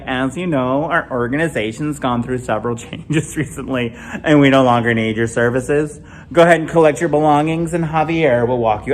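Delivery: mild corporate HR delivery; lightly voiced manager laying someone off; understated office layoff tone; wife as HR. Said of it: "She's like".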